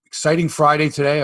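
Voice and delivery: high, bubbly show-open greeting; gushing red carpet chatter. Pretend. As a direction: gush like a red carpet host. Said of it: "We're live on the red carpet?".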